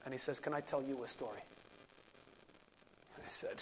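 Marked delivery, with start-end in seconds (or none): 0.4-1.4 low, hushed and grave; very serious. Retold or imitated. Rebbe telling him a story, hushed and grave. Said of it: "very serious".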